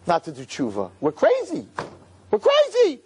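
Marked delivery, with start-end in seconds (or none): 1.0-1.7 emphatic. Real, not acted. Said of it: "repeated for emphasis". 2.3-3.0 louder emphatic. Real, not acted. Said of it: "repeated for emphasis".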